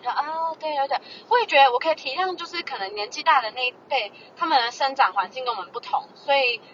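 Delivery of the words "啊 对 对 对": polite laugh-along. Retold or imitated. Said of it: "所以我都可以陪笑脸".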